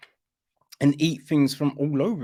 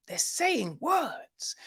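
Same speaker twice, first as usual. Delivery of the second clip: mocking repeat; 11 semitones higher, 6 dB quieter, slower than usual. Shown as a demonstration. Slow mocking repeat, high.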